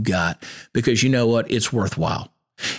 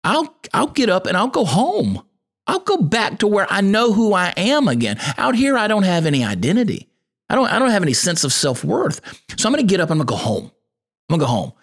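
raised, earnest voice of the lost son deciding to go home; prodigal son coming to himself; 7 semitones higher than usual. Retold or imitated. The starving son in the pig slop resolves to go home, earnest and raised. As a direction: voice the prodigal son, pitched up and pleading. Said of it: "he's like".

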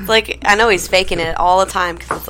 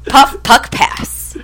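laughing through slogan; 5 semitones higher, 4 dB louder, much slower than usual. Real, not acted. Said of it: "read us this ad".

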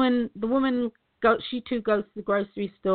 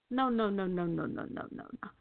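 fading no; 5 semitones lower, 8 dB quieter than usual. Shown as a demonstration. Repeated denial fading away.

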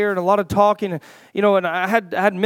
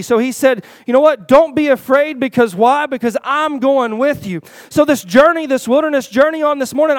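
raised, louder preaching voice, drawing out key phrases; 3 semitones higher, 4 dB louder than usual. Real, not acted. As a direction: preach the promise with rising force.

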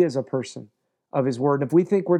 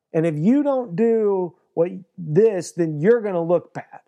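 mock threat. Joshua warning God about his name, pushy mock threat. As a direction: threaten God that he'll look bad. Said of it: "looks at God and is like".

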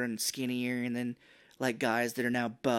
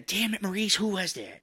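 imitating Fred Savage; 7 semitones higher than usual.

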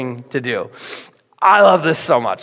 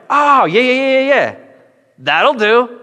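higher, louder eager repeated yeahs; delighted yeah; 7 semitones higher, 4 dB louder than usual. Retold or imitated. Jesus gladly taking the boy's lunch, eager. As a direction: happily accept the offer.

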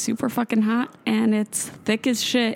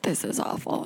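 dog voice whisper; 7 dB quieter than usual. Retold or imitated. Dog complains in the snow.

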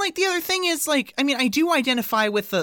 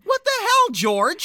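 shocked laugh; 12 semitones higher than usual. Real, not acted. Outrage at George appearing.

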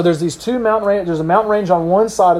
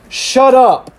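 raised, louder order; blunt command; 7 semitones higher, 5 dB louder than usual. Acted. Jesus to the winds and waves, blunt raised command. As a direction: silence it with two punched words.

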